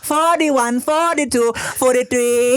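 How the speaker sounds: high, drawn-out mock-accent counting; mock Asian accent. Mimics a known comic character counting.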